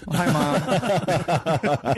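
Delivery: slow, drawn-out hello to mom; warm mom greeting. Real, not acted. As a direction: stretch it out sweetly for mom. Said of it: "I also have to say hi".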